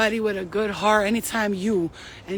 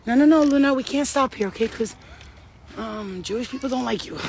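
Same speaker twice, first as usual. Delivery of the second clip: mock Karen; 2 semitones higher than usual. Quoting Karen scolding her dog.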